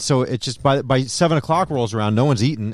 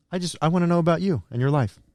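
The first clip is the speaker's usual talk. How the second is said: fake soothing, gentle, calm, nice voice; 4 semitones higher, 4 dB quieter than usual. Teasing the other speaker on purpose: put-on calm, nice voice. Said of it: "I'm just making you calm and nice".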